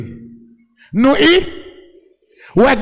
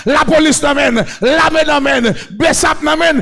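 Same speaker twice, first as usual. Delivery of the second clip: shouted, rhythmic list-like sermon; full-force preaching; 3 semitones higher than usual. Real, not acted. Preacher counting off gangs to the congregation, full-force preaching. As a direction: pound out each phrase to the crowd.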